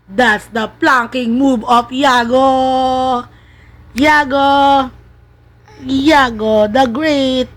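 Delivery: slow, stretched-out proud presentation; mock announcer. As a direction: announce the baby's feat grandly. Mock announcing baby's trick. (kunwaring tagapagpakilala, pahaba ang bigkas)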